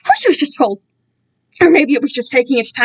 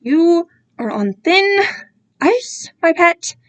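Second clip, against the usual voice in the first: low and angry; 5 semitones higher, much slower than usual. Acted. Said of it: "his voice low and angry".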